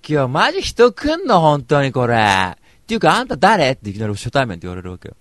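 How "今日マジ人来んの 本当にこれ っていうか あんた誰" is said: high, loud imitation of a brash girl; loud-voiced party girl. Party girl bursting into the event, loud imitation. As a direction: blare it out, much higher. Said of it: "やたらと声がでかい".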